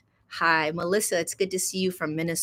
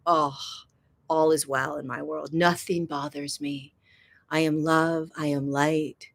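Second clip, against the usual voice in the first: mock blissed-out serenity; 3 semitones lower, 4 dB quieter than usual. Mimics someone in a blissed-out state.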